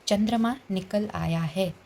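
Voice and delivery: spelled out slowly for students; slow dictation. Shown as a demonstration. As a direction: read the example sentence slowly and clearly. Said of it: "वाक्य देखिए". (धीमे, साफ़ उच्चारण में)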